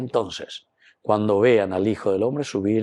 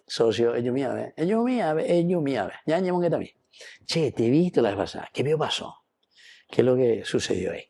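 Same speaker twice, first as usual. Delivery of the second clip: gentle word in the ear; 2 semitones higher, faster than usual. Retold or imitated. Don Bosco to a misbehaving boy, gently coaxing. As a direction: coax the boy kindly, like a friendly mentor. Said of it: "se está jugando la parolina al orecchio".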